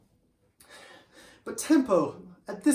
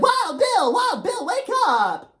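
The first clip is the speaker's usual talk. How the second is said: much higher, louder calling; urgent wake-up call; 14 semitones higher, 7 dB louder than usual. Acted. Tempo shaking Wild Bill awake, loud and high. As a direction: shout to rouse a sleeping friend.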